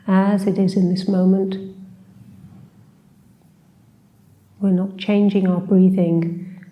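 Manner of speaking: unhurried meditation guide, long pauses between phrases; guided meditation. Acted. Teacher leading a short seated body scan, calm guided meditation. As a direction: gently guide them through a body scan, leaving space.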